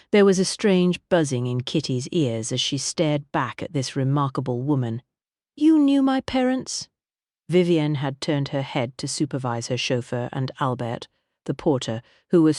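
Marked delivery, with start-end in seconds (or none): 5.5-6.9 high, slow, stunned question; surprised. Acted. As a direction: ask it in disbelief. Kitty shocked question.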